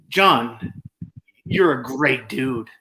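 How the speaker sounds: slow, even, meant compliment; sincere praise. Shown as a demonstration. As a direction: say it like you mean it. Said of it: "I say it like that".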